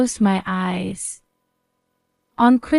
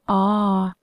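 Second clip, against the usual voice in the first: pained groan. A narrator's reading. Injured mother wakes in hospital, short groan. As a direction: groan as you wake hurting. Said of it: "A groan escaped my lips".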